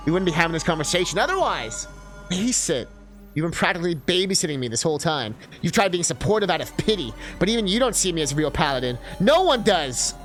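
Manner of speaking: hurt accusation. Acted. Healer accuses partner of pity, hurt and heated. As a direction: argue bitterly, rising at the end. Acted quarrel about being doubted.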